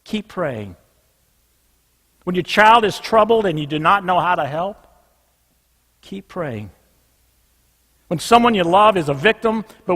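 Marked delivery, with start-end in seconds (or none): 0.0-0.8 low, soft, drawn-out refrain. Real, not acted. Preacher closing each case with a soft low refrain. 6.0-6.7 low, soft, drawn-out refrain. Real, not acted. Preacher closing each case with a soft low refrain.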